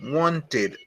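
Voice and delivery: wanted repeated softly, falling. Shown as a demonstration. Teacher softly repeating wanted for the class. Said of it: "se transforma en wanted".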